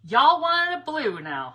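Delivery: playful Southern drawl on y'all; hammed-up Southern twang, slow and high; mock Southern. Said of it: "I was channeling all my Southern friends".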